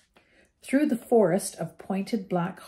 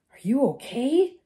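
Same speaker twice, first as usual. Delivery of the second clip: quick, raised urgent question; 7 semitones higher than usual. A narrator's reading. Harry checks on Ron after the crash, urgently. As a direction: check on your friend fast. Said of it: "Harry asked urgently".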